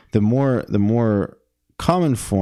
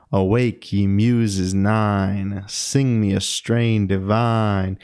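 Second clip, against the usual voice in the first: slow, corny sing-song verse; drawn-out, lilting mock-poetic reading; corny iambic recitation; slower than usual. Shown as a demonstration. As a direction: overdo the meter, stretching the beats. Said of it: "it has a corny sound to it".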